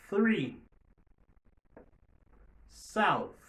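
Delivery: each word said apart with the unvoiced th, loud; slow drill, a pause after each word; model words. Shown as a demonstration. Teacher reads English th words for students to repeat. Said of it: "répétez le mot ça après moi".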